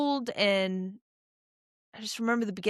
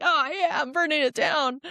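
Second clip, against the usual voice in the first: mock confident; 7 semitones higher than usual. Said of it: "in my head I'm like".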